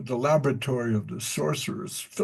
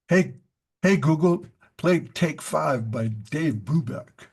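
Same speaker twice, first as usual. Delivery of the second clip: calling out; 3 semitones higher than usual. Real, not acted. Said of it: "speaking to the smart speaker".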